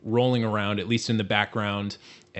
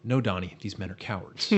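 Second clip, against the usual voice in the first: reassuring; 2 semitones lower, 4 dB quieter than usual. Retold or imitated. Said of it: "reassures him".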